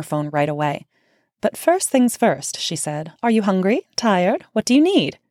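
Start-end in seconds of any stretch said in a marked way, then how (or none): 1.4-2.6 a slow, higher, hammed-up English accent; terrible English accent. Olivia greeting the narrator, in a mock English accent. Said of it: "Please forgive my terrible English accent". 3.2-5.2 a higher, hammed-up English accent on each question; terrible English accent. Olivia asking her jet-lagged guest what she needs, in a mock English accent. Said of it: "Please forgive my terrible English accent".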